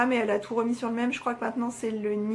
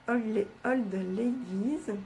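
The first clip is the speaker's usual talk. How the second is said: clumsy English; 4 dB quieter, much slower than usual. Real, not acted. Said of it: "j'ai un accent pourri". (prononcer "Old Ladies" lentement avec un fort accent français)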